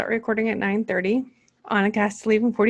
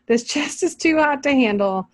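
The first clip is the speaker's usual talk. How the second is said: amused, raised quote of the verse; mocking reread; 5 semitones higher than usual. Real, not acted. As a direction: reread the line in mock disbelief. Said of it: "I don't like that translation".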